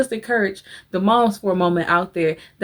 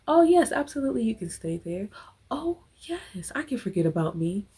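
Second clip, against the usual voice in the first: people-pleaser voice; 4 semitones higher, 4 dB quieter, faster than usual. Retold or imitated. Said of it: "And saying".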